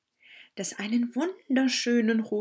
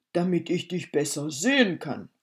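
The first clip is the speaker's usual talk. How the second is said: quick, sly wolf answer, x1.4; a hint of a wolf hiding his plan; lightly voiced wolf; 2 semitones lower, 3 dB louder, faster than usual.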